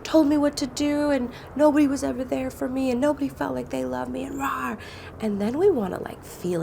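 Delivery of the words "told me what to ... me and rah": voicing angry inner part. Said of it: "And it's just like".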